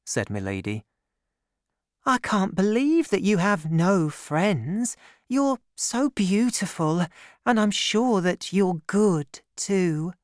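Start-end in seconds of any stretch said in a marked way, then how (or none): 2.0-10.1 high, slow and admiring; young woman. A narrator's reading. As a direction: play Constance, sincere and sweet. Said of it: "said the young woman".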